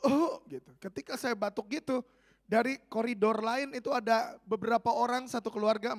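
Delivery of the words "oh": short, raised mock cough; imitated cough. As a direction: give one quick demonstrative cough. (tiruan batuk singkat)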